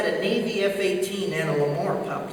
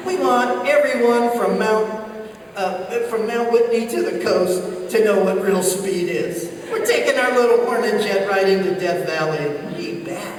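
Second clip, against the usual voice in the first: loud mock swagger; cocky boast; 4 dB louder than usual. Navy pilot showing off on frequency, mock cocky.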